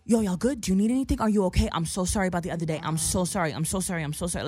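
eager checking-in sliding into quick repeated apology; overly apologetic. Retold or imitated. Dude suddenly changed from night to day, fussing apologetically. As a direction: imitate a gushing, fussing apologizer. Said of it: "he changed from night to day".

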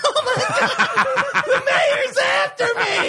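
very high, slow, laughing squeal; mock panic. Councilwoman fleeing the mayor, high laughing squeal. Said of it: "the girl's like".

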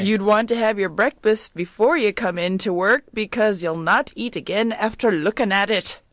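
lightly put-on Irish accent; attempted Irish accent. Quoting the Dublin shop owner, attempted Irish accent. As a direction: read it as an Irish shopkeeper, not too convincingly. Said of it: "What accent was that?".

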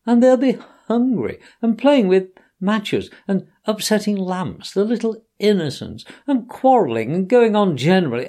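high, loud sobbing list, rushing at the end. Acted. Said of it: "sobbed Toad".

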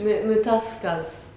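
Mutafkas said slowly, Japanese style: mu-ta-fu-ka-su; Japanese pronunciation. Retold or imitated. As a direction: say Mutafkas with Japanese katakana vowels. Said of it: "you just said it with a Japanese".

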